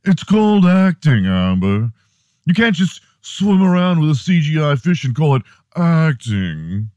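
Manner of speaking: indignant British actor, high and loud; hammed-up British outrage; fake British accent. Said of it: "your fake British accent".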